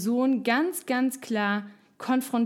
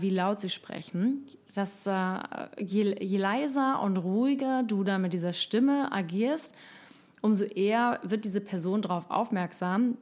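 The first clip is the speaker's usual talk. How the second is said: calm and low. Shown as a demonstration. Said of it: "man spricht einfach ganz ruhig tief".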